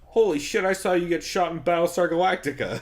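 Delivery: excited Barnett quote. Retold or imitated. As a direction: retell an excited fan's outburst. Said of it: "Barnett walked by and he goes".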